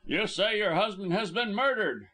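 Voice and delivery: mildly accusing, suspicious tone; sudden suspicion. A narrator's reading. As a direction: challenge her story, pitch lifted. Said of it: "with sudden suspicion".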